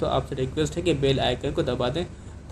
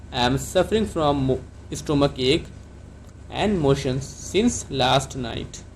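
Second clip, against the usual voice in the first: broken into chunks; much slower than usual. Shown as a demonstration. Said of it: "आप डॉक्टर को कैसे बोलेंगे?".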